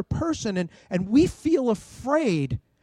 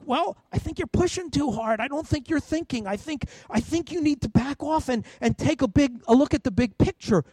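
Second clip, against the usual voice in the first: reasonable reply; 5 semitones higher than usual. Shown as a demonstration. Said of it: "there might be a dialogue".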